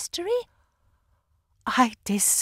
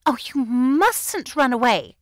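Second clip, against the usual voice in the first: put-on louder, slow, coy old-dowager voice; skittish elderly dowager; 4 semitones higher, 8 dB louder, slower than usual. A narrator's reading. Anne to Paget at his escape, a skittish dowager. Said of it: "with the skittish accent of an elderly dowager".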